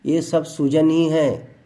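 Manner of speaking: slow, deliberate, every word weighed; slow it down so they listen; slow, pointed delivery; slow emphasis. Real, not acted. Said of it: "बड़ा ध्यान से सुनिए".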